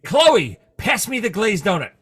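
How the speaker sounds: bossy agent barking a request; Kiefer Sutherland voice. Retold or imitated. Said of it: "Every time".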